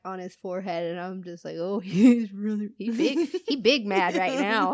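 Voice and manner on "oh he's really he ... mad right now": laughing at the bulging vein; wife laughing at her angry husband; laughing tease. Retold or imitated. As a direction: giggle through it, teasing and louder.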